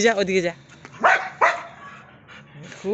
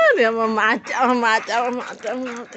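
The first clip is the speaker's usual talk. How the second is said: 1 alarmed fish; 2 semitones higher, 4 dB louder than usual. Real, not acted. Pet grabs fish.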